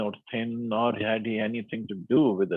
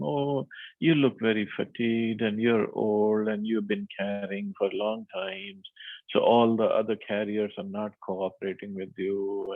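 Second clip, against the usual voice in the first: mildly sarcastic. Retold or imitated. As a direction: retell the king's jibe with understated sarcasm. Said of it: "sarcastically telling him".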